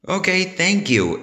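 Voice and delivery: high, eager thank-you; exclaiming. A narrator's reading. SpongeBob forgiven by Mister Krabs, exclaiming high and eager. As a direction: blurt out thanks with relief. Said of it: "exclaimed SpongeBob".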